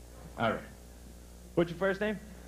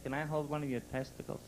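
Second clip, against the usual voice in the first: quiet demure nun; 7 dB quieter than usual. Retold or imitated. Nun asks politely.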